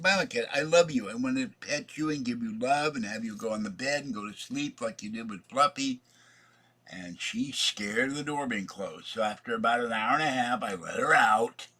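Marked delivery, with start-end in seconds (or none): 0.0-6.0 sweet talk to cat. Retold or imitated. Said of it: "I said".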